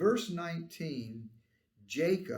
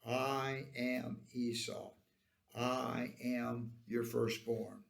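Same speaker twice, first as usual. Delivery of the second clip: slow, lower, deliberate declaration; softly weighted claim, each word spaced out; Jacob lying; 4 semitones lower, 5 dB quieter, slower than usual. Acted. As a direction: state the false claim slowly and solemnly. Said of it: "Jacob lies to his father".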